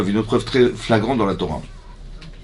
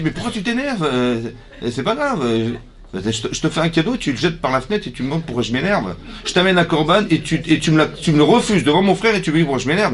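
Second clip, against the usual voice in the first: high, whiny protest to God; a wounded son complaining, pitched up; indignant Cain; 4 semitones higher than usual. Acted. Cain voiced arguing with God.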